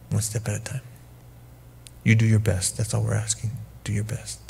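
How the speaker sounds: calm a scared son, gently; gentle reassurance. Retold or imitated. Father comforting son.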